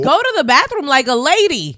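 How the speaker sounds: high, indignant telling-off; exasperated scolding. Real, not acted. Co-host telling off the absent woman, exasperated. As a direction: scold an absent offender in disbelief.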